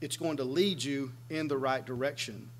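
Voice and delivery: normal talking voice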